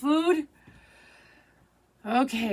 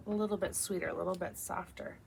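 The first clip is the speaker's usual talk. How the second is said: trailing into a much softer voice; 6 semitones lower, 11 dB quieter, faster than usual. Real, not acted. Describing the sweeter heart to viewers, fading softly. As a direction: let it melt away as you go.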